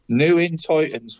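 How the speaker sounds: "New in Titans" said as three clear words, NEW stressed; careful correct pronunciation. Shown as a demonstration. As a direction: make sure "New in Titans" comes out right, not Newland. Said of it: "I'm gonna say it correctly this week".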